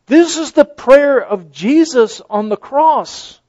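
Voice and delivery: high, ringing realization; emphatic declaration. Real, not acted. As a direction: proclaim it with awe.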